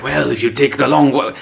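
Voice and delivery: lightly put-on, vaguely German voice; Judge Wormtongue, vaguely German. Co-host voicing a scheming judge, vaguely German accent. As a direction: do a wobbly, kind of German accent. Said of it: "I don't know why I'm doing that voice".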